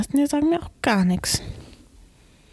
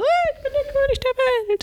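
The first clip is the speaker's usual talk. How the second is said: excited shout; 13 semitones higher than usual. Retold or imitated. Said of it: "und sind so".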